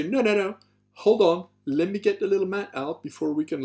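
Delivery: high, loud mock panic; mocking panicky fighter. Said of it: "you're gonna say".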